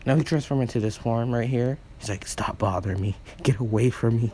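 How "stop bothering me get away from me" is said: bad boy voice. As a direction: sound like the dark transformed hero. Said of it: "transformed into his bad boy Halo form".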